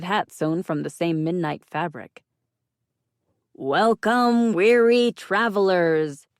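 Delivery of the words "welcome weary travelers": loud, slow, grand wizard welcome; theatrical wizard. A narrator's reading. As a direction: boom it out like a stage wizard. Costumed wizard greets grandly.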